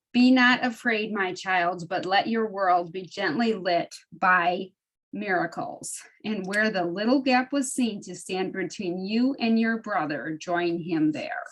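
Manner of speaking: measured reading of a devotional passage; reading aloud. Acted. Reading a favorite paragraph to the study group, measured reading. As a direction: read it out slowly and deliberately.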